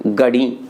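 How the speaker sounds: गड़ी with plain g and low pitch; Haryanvi गड़ी. Shown as a demonstration. Teacher repeating the Haryana form, गड़ी low. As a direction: drop the breath, say गड़ी low. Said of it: "वहाँ उच्चारण क्या होता है?".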